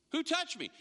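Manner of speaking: commanding call. Acted. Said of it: "the way he said it".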